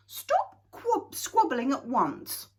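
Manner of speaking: loud, high call to stop them; crying out. A narrator's reading. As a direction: call out sharply to the children. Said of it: "she cried".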